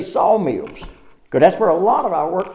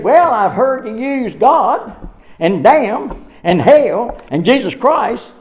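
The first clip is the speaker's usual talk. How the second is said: slow listed oaths; 2 semitones higher, 4 dB louder, slower than usual. Retold or imitated. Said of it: "He said".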